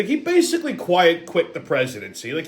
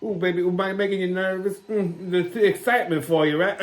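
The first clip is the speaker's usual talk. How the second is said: Big Mama. Acted. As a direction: purr it like a flirty auntie.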